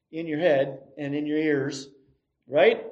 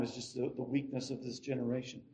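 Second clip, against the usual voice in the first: mock scorn; 5 semitones lower, 13 dB quieter, faster than usual. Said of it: "I'm kidding".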